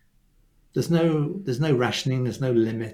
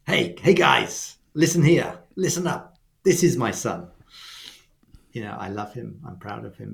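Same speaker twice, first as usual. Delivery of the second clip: public declaration. Retold or imitated. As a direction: announce it to everyone, then soften at the end. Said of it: "the Father is declaring to the crowd".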